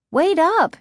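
high, quick call to wait. A narrator's reading. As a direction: call after someone ahead. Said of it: "she called".

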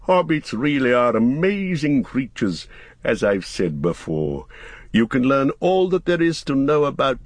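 a hint of an impressed old wizard; lightly voiced Gandalf, marvelling. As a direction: marvel aloud, lightly in character.

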